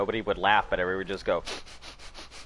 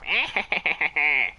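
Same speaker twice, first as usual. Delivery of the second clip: Waluigi laugh; 7 semitones higher, 3 dB louder than usual. Acted. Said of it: "the Waluigi laugh".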